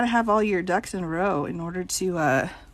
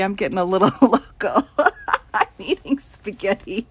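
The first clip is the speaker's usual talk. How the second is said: laughing; 3 dB louder than usual. Real, not acted. Admits getting loopy, laughing.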